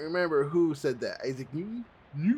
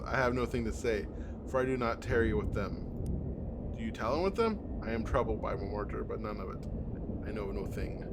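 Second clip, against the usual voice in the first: hint of a lofty old tree speaking; solemn tree voice; 4 semitones lower than usual. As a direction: read it as an old forest spirit. Tree dialogue continues.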